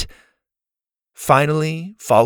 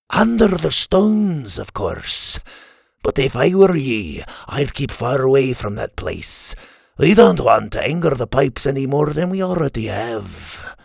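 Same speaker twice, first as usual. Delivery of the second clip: fisherman giving a warning. Acted. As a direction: warn strangers off as a local fisherman. Voices the fisherman warning them.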